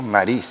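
"nariz" ending in S, no Z lisp; "nariz" with an S in place of the Z; Canarian seseo. Shown as a demonstration. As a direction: say "nariz" as "naris". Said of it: "sino sin la Z".

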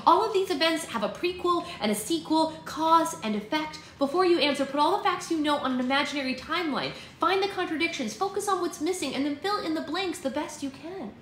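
put-on high-pitched, earnest young sister; coaching sister. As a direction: urge him on like a tutor. Voices the sister coaching her brother.

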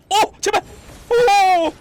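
high, loud anguished shout; frustrated yell. Real, not acted. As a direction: yell as you die. Near death, then dies.

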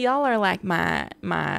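lingering mock Southern accent. Streamer thanking viewers, stuck in a playful Southern accent. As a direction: slip lightly into Southern talk. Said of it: "I'm still talking this accent".

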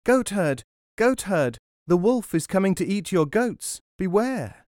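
high, loud warning shout; shouting at the top of his voice. Acted. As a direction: yell a warning across the field. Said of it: "called out at the top of his voice".

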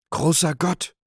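hoher, lauter Entsetzensschrei; Aufschrei. A narrator's reading. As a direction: schreit erschrocken auf. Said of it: "schrie der Wirt". (entsetzter Aufschrei des Wirts)

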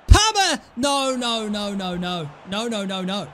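dismayed outburst at a near goal; anguished shout. Real, not acted. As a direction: groan at the miss. Missed chance.

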